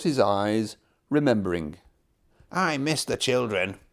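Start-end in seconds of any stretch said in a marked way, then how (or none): 2.5-3.8 sighing. Acted. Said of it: "he sighed".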